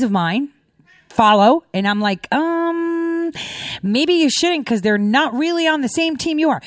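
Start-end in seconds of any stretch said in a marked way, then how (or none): 2.3-6.6 higher-pitched, hesitant voicing of gentle advice; tactful doubt. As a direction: act out carefully breaking it to a friend. Acted cautious advice to friends.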